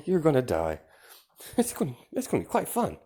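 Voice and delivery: high, fast, gleeful menace; giddy threat. Acted. Toga gleefully threatens her captors, high and fast. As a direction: rattle off the threat like a treat. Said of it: "And she's like".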